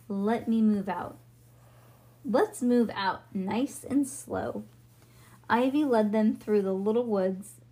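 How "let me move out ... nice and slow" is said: slow cowboy drawl; easy does it, cowboy. Acted. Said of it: "You sound like a cowboy".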